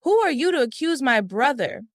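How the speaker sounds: outraged shout defending his brother; angry scream. A narrator's reading. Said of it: "Farouk screamed angrily".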